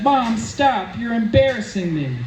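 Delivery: put-on embarrassed teen. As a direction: groan it like a mortified teenager. Teen daughter whines at mom.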